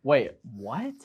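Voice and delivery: retold disbelief, sharp rise on "what"; incredulous. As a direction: replay a stunned double take. Retold astonished reaction.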